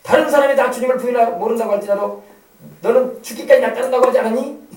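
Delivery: loud, mock accusing interrogation; scolding. Jesus imagined confronting Peter over his denial, scolding. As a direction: dress down a shameless deserter.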